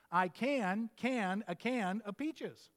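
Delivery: slowly spelling out each can; slow demo sentence. Shown as a demonstration. Preacher showing congregation the word can, slow and deliberate. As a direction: lay out the three cans deliberately. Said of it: "three different ways in one sentence".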